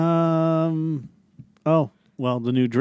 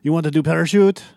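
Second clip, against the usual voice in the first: put-on French accent. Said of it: "I know I'm doing the French voice".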